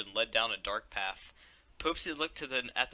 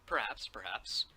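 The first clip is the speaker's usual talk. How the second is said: slow, mysterious whisper; 4 dB quieter, slower than usual. Real, not acted. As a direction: hush it like a secret.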